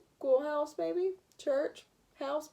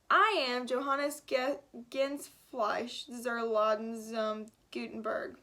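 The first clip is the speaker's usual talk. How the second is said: put-on German accent; much slower than usual. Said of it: "a thick German accent".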